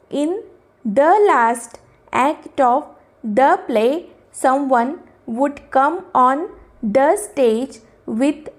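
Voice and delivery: measured, slow reading-aloud voice; slow passage reading. Acted. Teacher reading the exercise passage to the class, slow and measured. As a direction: read the passage out slowly for students. Reads the story passage slowly.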